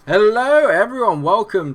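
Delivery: cheery greeting. Acted. YouTuber greeting his viewers with excited energy.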